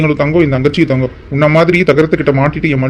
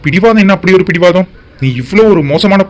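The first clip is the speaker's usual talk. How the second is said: raised, higher scolding; angry; 4 semitones higher than usual. Acted. Husband scolding his stubborn wife, angry and raised. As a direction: throw her stubbornness back at her.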